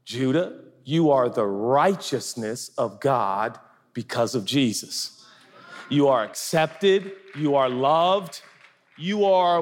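slow, deliberate self-talk; self-affirmation. Shown as a demonstration. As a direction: tell yourself the truth slowly. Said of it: "I will tell myself out loud".

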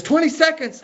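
high-pitched imitated disbelief; incredulous kid. Son to dad mid-plank, incredulous. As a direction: mimic a son who can't believe the count.

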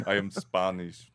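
lightly put-on Spanish accent; mock Spanish accent. Joking around with friends, mock Spanish accent. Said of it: "that's a pretty good Spanish accent".

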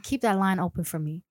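low-key seductive coaxing; sultry. Shown as a demonstration. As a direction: ask it like a late-night flirt. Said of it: "use your sultry voice".

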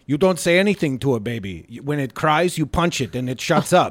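lightly voiced angry Swedish coworker; angry Swede voice. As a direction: read it as the mock Swede, matter-of-fact. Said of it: "you gotta say it in the voice".

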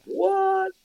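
high-pitched, soft squeal of disbelief; a drawn-out, incredulous high "what"; astonished what. Retold or imitated. Acted amazed reaction to huge drink.

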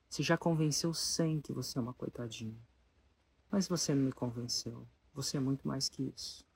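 steady her gently but firmly; a touch of calm authority. Retold or imitated. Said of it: "com a maior calma do mundo".

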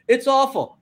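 hammed-up miserable worker; grumbling coworker. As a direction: moan it like someone who hates their job. Acted dialogue with negative coworker.

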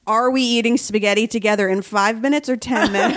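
giggling through a pretend question to a TV star; laughing mock question. To Matt LeBlanc, imagining a cosy dinner, laughing. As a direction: laugh while asking it, half teasing. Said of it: "I would be like".

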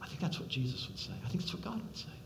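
soft unvoiced aside; whisper. Real, not acted. Preacher whispering to the congregation about God's words. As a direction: breathe it quietly as a confidence. Tender aside after father's answer.

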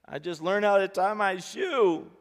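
put-on high, loud, drawn-out child's wail; mock sobbing. A narrator's reading. Little girl answering her father, mock sobbing. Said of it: "She broke into a sob".

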